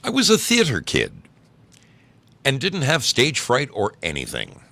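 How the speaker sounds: lively, projected storytelling voice; animated story reading. A narrator's reading. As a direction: read the embarrassing tale aloud with bounce. Starts reading another story aloud.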